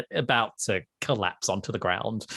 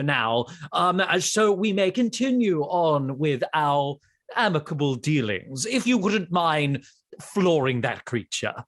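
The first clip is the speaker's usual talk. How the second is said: lightly voiced formal ghost, a little lifted in pitch; a hint of a genteel spirit making a request; courteous ghost. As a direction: play a politely pleading ghost. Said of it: "The ghost is up first".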